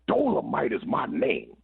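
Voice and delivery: high, drawn-out mock scream; imitated yelling. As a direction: imitate a performer hollering into the mic. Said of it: "started yelling and screaming".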